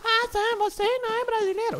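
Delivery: high squeaky mock of a viewer's question. Viewer's question voiced mockingly. (voz fininha zombando do espectador)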